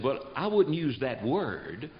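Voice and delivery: slow and soft, "wouldn't" lifted; slow gentle reply. Retold or imitated. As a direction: ease out a measured correction. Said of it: "I said".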